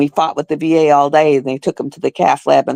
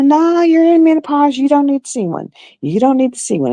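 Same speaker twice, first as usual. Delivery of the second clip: mock dismissive doctor; 9 semitones higher than usual. Doctor dismissing her in retold story.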